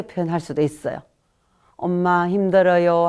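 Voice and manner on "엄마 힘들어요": put-on child's complaint. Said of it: "하고 하소연을 할 수도 있어요".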